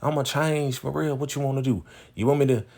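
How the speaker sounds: a hint of a desperate boyfriend; begging. Derek begging Keyshawn not to leave, mock pleading. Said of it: "he's like".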